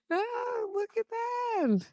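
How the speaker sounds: high, slow, soft coo; delighted coo. Real, not acted. Streamer moved by what viewers show, soft high coo. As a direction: coo over something lovely.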